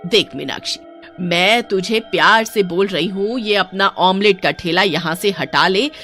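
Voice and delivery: angry scolding. Acted. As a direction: scold the young woman from the doorstep. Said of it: "गुस्से से बोलती है".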